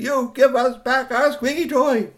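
high, loud, slow demand; shouted demand. A narrator's reading. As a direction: shout it up into the trees, drawing out the words. Boys demand toy from below.

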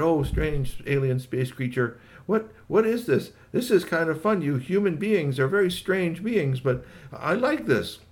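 high, stretched-out alien voice; curious alien. Acted. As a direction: puzzle over Earth creatures in a high voice. Alien speaking to the dog.

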